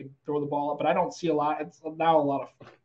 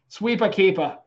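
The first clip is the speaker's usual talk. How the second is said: slight Boston accent, r dropped; 4 semitones higher, slower than usual. Shown as a demonstration. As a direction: say it like a Boston local. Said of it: "I only think about that in a Boston accent".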